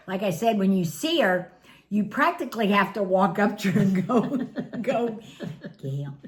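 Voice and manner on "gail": timid call. Retold or imitated. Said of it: "you're not allowed to go".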